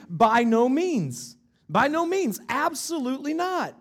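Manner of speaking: preacher booming the denial; emphatic refusal. Retold or imitated. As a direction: thunder out the apostle's refusal. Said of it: "in the strongest terms possible".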